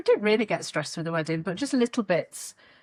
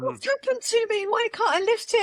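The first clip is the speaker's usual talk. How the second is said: retold upset; 13 semitones higher than usual. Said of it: "I was really upset".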